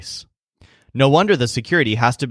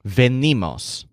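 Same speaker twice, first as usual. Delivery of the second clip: "Venimos" said slowly, ve-NI-mos, with the middle syllable stressed; "Venimos" with the weight on the middle syllable; slower than usual. Shown as a demonstration. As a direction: press on the "ni" of "Venimos". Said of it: "with a stress on ni".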